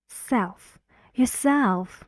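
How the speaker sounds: "Yourself" with "self" stressed; light "Your", lean on "self" in "Yourself"; stress on second syllable. Shown as a demonstration. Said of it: "Where's the stress?".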